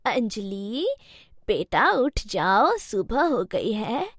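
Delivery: a lightly voiced elderly mother-in-law, patient; old mother-in-law. Mother-in-law calls her sleeping bahu, slow old voice.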